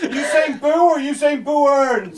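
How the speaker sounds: high laughing question. Real, not acted. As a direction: tease while laughing. Teasing, laughing.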